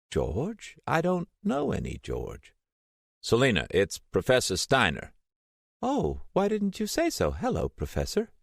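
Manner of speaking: put-on high, wavering voice of a confused elderly woman; a frail old lady, lost and vague; old Selena on the phone to Steiner, confused and frail. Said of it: "confused old ex-Vice President".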